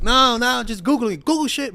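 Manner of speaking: high, loud protesting; mock defensive. Speaker denying personal experience to a heckler, mock defensive. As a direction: protest loudly with pitch shooting up.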